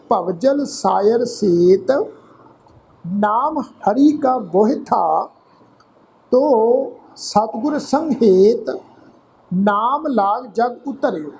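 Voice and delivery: slow, measured Gurbani reading with drawn-out word endings; scripture recitation. Shown as a demonstration. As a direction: recite phrase by phrase, pausing between. Repeats the verse.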